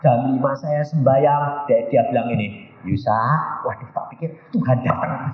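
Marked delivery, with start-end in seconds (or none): 2.8-3.1 low, gentle call by name; gentle divine imitation. Devil posing as Jesus calls the preacher, gentle. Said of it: "Ngomongnya halusnya kayak Tuhan Yesus".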